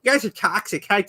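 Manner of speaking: lightly voiced smug game defender; mocking imitation. Streamer apes a rival scolding the community, lightly mocking. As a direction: parody an indignant, self-satisfied fan. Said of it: "look at the community and go".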